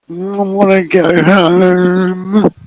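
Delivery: put-on high, slow, plaintive child; a small child begging to leave; tearful little girl. Maddie pleading to go home, high and plaintive.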